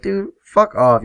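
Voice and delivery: half-acted annoyed retort; mock angry snap. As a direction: tell him off, fed up. Angry at an obnoxious friend.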